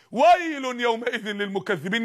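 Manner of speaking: measured Quranic chant; slow Quran recitation. Acted. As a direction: draw out the verse slowly and solemnly. Verse recited slowly.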